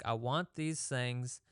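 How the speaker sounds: calm self-talk. Retold or imitated. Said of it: "you just calmly look at it".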